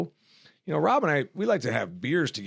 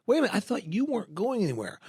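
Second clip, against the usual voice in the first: fast, higher sarcastic double take; mock disbelief; 10 semitones higher, faster than usual. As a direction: act out catching them in a lie. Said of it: "I'm like".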